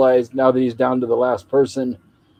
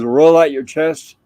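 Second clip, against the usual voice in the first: slow, louder retold order; drill command; 3 semitones higher, 5 dB louder, slower than usual. Skipper drilling skinny Gilligan, slow mock command.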